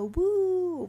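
loud high Woo; sarcastic whoop for Florida; mock cheer. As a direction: whoop like a proud hometown fan.

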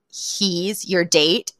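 slow, drawn-out mock disbelief; incredulous. Judy seeing Fran with Mister Sheffield, stunned disbelief. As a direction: stretch each word as if stunned. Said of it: "her jaw drops".

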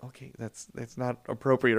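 parental correction. Retold or imitated. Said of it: "were like".

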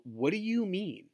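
imagined incredulous judge. Pretend. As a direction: play a judge demanding an explanation. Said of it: "they're gonna go".

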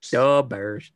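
mock Chicago fan echo; short, thick Chicago-style catchphrase; Chicago accent. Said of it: "I can slip into Chicago".

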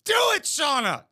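high, urgent shout of protest; warning shout. Real, not acted. Viewer begging the host not to end the drama, shouted warning. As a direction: shout at the screen to stop her.

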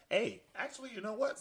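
high burst of excitement; suddenly fired up; sudden excited. Real, not acted. Sudden outburst before rant.

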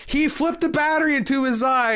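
high-pitched kids blurting bad news; retold panic. Boys telling teacher about the battery accident, mock panic.

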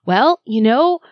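husband calmly reassuring his upset wife. Retold or imitated. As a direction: lightly voice a soothing husband. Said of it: "he's like".

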